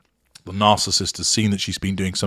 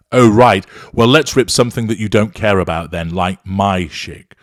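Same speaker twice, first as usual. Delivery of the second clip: sarcastic; 5 dB louder than usual. Acted. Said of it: "The narcissist answers sarcastically".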